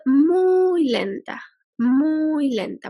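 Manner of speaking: slow, stretched "muy lenta"; drawn-out emphasis. Real, not acted. Teacher explaining electrons' very slow speed, drawn out and slow. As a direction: draw out "muy" to underline the slowness.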